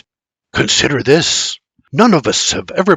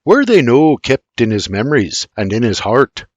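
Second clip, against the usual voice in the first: Irish man voice; 2 semitones higher, 5 dB louder than usual. Acted. James Junior character voice.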